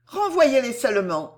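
lightly voiced young heroine; earnest heroine, insistent. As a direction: press him gently but urgently. Narrator voices Cécile.

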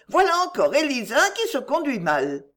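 exclaiming. A narrator's reading. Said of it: "s'écria-t-elle".

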